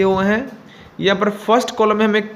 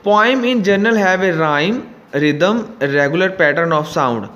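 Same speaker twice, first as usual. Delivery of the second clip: slow, careful reading of the instruction; slow textbook reading; much slower than usual. Acted. Teacher reading the book to students, slow and careful. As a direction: read it out slowly for the class. Reads textbook text aloud.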